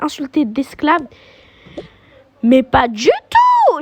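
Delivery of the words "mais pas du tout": indignant denial. Acted. Denying accusation indignantly.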